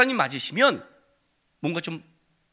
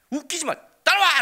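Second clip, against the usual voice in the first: high, loud "follow me"; defiant order; 9 semitones higher, 5 dB louder than usual. Retold or imitated. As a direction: challenge them boldly. Son challenging friends.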